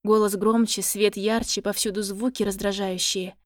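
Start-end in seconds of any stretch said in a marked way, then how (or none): none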